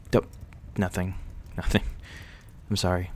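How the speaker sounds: a sheepish little laugh through the word. Real, not acted. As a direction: laugh it away, a touch embarrassed. Embarrassed, brushing off a remark.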